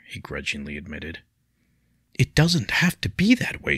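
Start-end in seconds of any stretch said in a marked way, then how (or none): 2.1-3.8 higher, louder protest. A narrator's reading. Leah protesting to William, raised and pleading. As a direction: push back hard against him. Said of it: "she protested".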